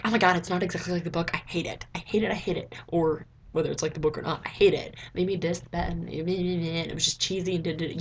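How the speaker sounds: mock a whiny fan ranting. Mocking fans who rage at movie adaptations, mild hammed-up whine. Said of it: "I hate when people freak out".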